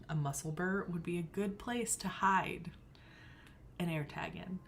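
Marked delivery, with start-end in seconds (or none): 3.8-4.6 hushed sneaky aside; playful whisper; conspiratorial whisper. Real, not acted. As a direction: whisper it like a secret plan. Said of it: "I'm just saying it".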